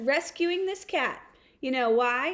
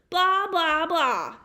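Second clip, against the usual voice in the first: dismissive blah; 3 semitones higher, 4 dB louder, slower than usual. Retold or imitated. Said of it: "they replied".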